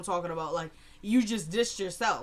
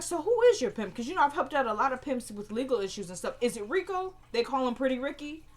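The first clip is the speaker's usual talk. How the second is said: mock sweet questioning; 5 semitones higher than usual. Mocking the girl with questions.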